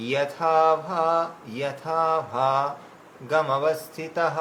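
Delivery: যথা ভা said slowly, then a pause before গমবস্থিতঃ; slow on যথা ভা, then move on to গমবস্থিতঃ; phrasing demo. Shown as a demonstration. Teacher correcting the group's phrasing of যথা ভা. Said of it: "এই পর্যন্ত আমাদের একটু গতি দিতে হবে".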